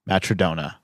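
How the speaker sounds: "Matrodona" said as one word, ma-truh-DOH-nuh; "Matrodona" with a falling end; trying a pronunciation. Shown as a demonstration. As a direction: repeat "Matrodona" to test it, DOH stressed. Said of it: "that's gotta be how he pronounces it".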